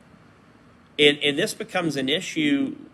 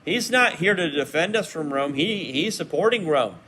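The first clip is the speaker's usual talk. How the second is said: accusing opponents; 5 semitones higher, 3 dB louder than usual. Retold or imitated. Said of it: "they would immediately come out and say".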